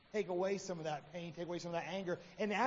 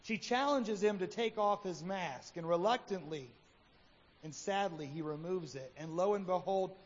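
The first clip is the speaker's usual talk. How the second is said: measured storytelling read; story narration. Acted. Preacher reads the Happy Hypocrite story, measured narration.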